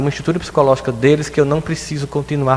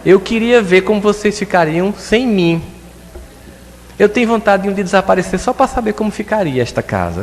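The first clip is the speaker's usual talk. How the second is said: classic mother's lament; 7 semitones higher than usual. Retold or imitated. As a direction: sigh it like a weary mother. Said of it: "frase clássica da mãe".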